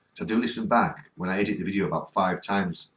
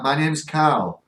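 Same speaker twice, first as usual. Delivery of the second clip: drawn out, unsure repeat of a heard name; slow questioning echo; 6 semitones higher, 5 dB louder, much slower than usual. Retold or imitated. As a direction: stretch it slowly like checking what you heard. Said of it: "I heard her say".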